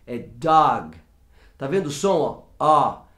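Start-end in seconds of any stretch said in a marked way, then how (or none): 0.1-1.0 "dog" with an open ah, like two As. Shown as a demonstration. Teacher modelling the right vowel for students. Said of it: "é A".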